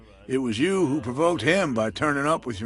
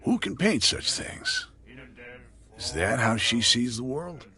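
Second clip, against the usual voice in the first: mock incredulous. Bartender mimicking locals' shock at her paintings, mock incredulous. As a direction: play the shocked locals asking it aloud. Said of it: "we said to ourselves".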